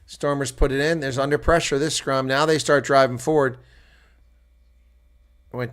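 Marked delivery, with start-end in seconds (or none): none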